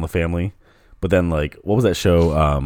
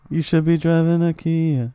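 ad announcer voice; 11 semitones higher, slower than usual. Pretend. Mock car ad line.

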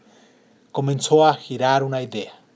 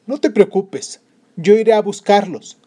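husband reassuring; 7 semitones higher, 8 dB louder than usual. Acted.

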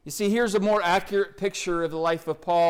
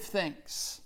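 whispered thanks; 10 dB quieter than usual. Acted. Word dropped to a whisper.

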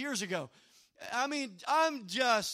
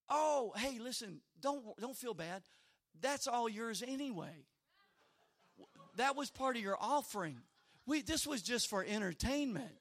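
consoling lady; 2 semitones lower, 7 dB quieter than usual. Retold or imitated. Lady in charge consoling the disappointed missionary, soft and casual. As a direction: gently brush off the disappointment. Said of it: "the lady in charge said".

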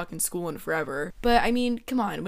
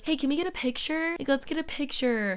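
higher, gushing girly mock voice; mock a needy girlfriend begging for a picture; hammed-up sweet girlfriend; clingy girlfriend; 5 semitones higher than usual. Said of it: "that type of girl to".

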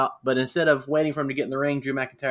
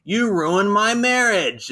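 higher, drawn-out mock yell; retold yelling, only moderately loud; 7 semitones higher, 4 dB louder, slower than usual. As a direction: imitate a wife's slow, aggrieved yell. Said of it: "comes up, and she's yelling".

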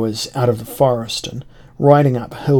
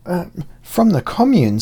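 high, whining, fawning voice; wheedling whine; 7 semitones higher, 3 dB louder than usual. Acted. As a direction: grovel and whine to the officer. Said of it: "I changed my voice to a wheedling whine".

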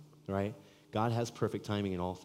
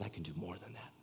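voice of God; 11 dB quieter than usual. Acted. God's voice answering, quiet.

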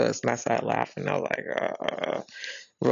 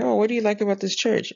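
high, quick and overly cheery; bright chatty question; 9 semitones higher, faster than usual. Retold or imitated. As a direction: play it fake-friendly and upbeat. Bright small talk with aunt.

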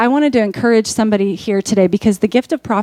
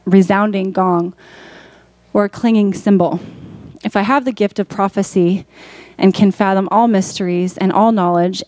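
scripture reading; 2 semitones lower than usual. A narrator's reading. Preacher reads Corinthians to the congregation, measured scripture reading. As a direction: read the verses evenly, pausing between phrases. Reads a Bible passage aloud.

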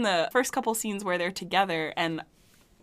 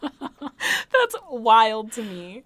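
laughing disbelief; 2 semitones higher, 6 dB louder, much slower than usual. Real, not acted. Co-host laughing at the movie's ten percent score, laughing disbelief.

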